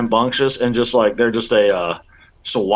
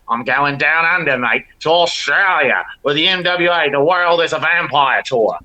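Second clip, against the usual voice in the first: a bad, half-hearted stab at an Australian accent; a touch of mock Aussie, badly faked; terrible Australian accent. Wrestler plugging his Australia tour in a bad Australian accent. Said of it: "That was a terrible Australian accent".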